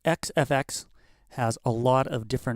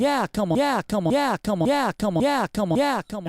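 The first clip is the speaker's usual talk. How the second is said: stutter effect; 5 semitones higher than usual. Shown as a demonstration. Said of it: "mod one is the division".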